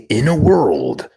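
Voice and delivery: slow movie trailer narrator. Shown as a demonstration. Streamer told to say it, trailer voice. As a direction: intone it like a film trailer. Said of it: "Hero was told to say".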